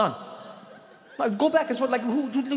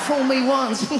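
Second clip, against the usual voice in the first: lightly voiced chuckly Texan; half-laughing through the line; George Bush impression; 4 semitones higher, 3 dB louder, slower than usual. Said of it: "that weird chuckly thing".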